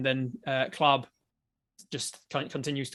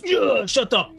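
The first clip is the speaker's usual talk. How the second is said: higher, louder gruff jailer; jailer snapping; 8 semitones higher, 9 dB louder, much slower than usual. Acted. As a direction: bark at the prisoner to shut up. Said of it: "and he goes".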